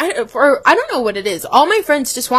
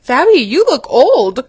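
blunt coworker; 4 semitones higher, 6 dB louder than usual. Retold or imitated. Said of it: "she goes".

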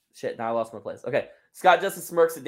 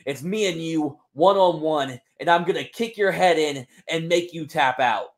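fired-up wrestler promo. Acted. Wrestler calling out his rival, intense promo. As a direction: cut a fierce promo at your rival.

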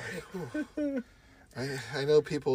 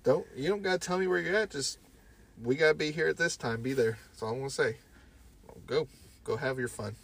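mock scolding; 4 semitones higher than usual. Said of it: "I'd be like".

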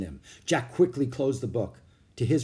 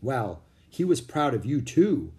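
modestly. Acted. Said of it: "Jack said modestly".

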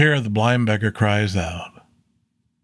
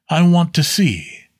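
"I want to see" pitched much higher and louder, "want" lifted; pleading blind man; 8 semitones higher, 4 dB louder than usual. A narrator's reading. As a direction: plead for sight, voice raised high.

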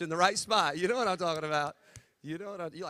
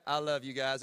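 Southern accent; 4 semitones lower than usual. Real, not acted. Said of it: "That's my Southern coming out".

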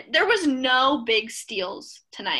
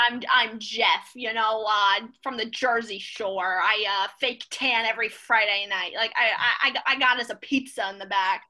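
put-on Jersey accent; 3 dB louder than usual. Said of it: "with his Jersey accent".

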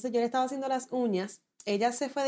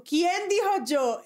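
raised, stretched call to a crowd; 7 semitones higher, much slower than usual. Retold or imitated. Preacher asking the congregation who answered, called out. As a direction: imitate a preacher searching the room.

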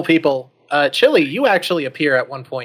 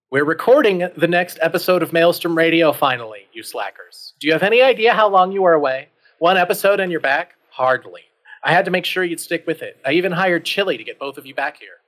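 raised, indignant telling-off; exasperated scolding; 4 semitones higher than usual. Acted. Producer scolding two late podcast hosts, exasperated. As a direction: scold them as slackers, pitch jumping up.

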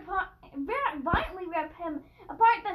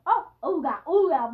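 monkey noises; 3 semitones lower, 5 dB louder than usual. Acted. Child does monkey noises.

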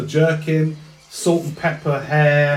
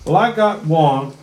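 Texan drawl. Acted. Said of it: "He's a Texan drawl".

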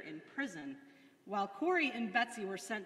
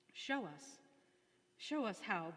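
matter-of-fact prayer. A narrator's reading. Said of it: "so matter-of-factly".

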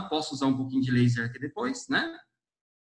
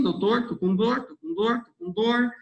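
complaining patient; 6 semitones higher than usual. Retold or imitated. Patient complaining voiced in talk.

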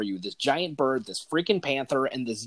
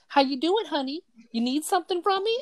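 much higher, sultry purring come-on; sassy sexy voice; 13 semitones higher, faster than usual. Retold or imitated. Van driver flirting with the player on arrival, sassy and high. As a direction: vamp it up like a flirty mechanic. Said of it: "she says in this sassy, sexy voice".

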